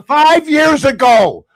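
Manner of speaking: slow, mocking, laughing repeat; laughing scorn. Real, not acted. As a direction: scoff at it with a laugh.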